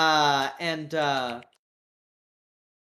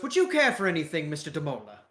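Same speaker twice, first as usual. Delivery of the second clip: quick, courteous British offer; British accent; faster than usual. Acted. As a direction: offer politely as a British caricature. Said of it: "with a British accent".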